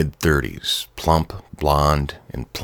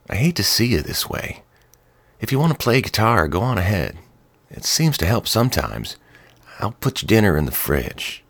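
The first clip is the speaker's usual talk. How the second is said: higher, caring wife's voice; sympathetic wife; 6 semitones higher than usual. A narrator's reading. Wife encouraging husband to play guitar, caring and higher. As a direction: comfort him gently.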